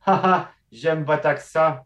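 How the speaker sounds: put-on amused visitor savouring the accent; mock charmed tourist. A tourist repeats the guide's word, mock-charmed and laughing. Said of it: "Puis il était comme".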